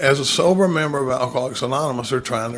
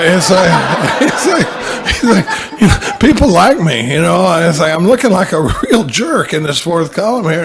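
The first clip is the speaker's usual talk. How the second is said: laughing while talking; 4 semitones higher, 8 dB louder than usual. Real, not acted. Laughing while retelling sponsee's words.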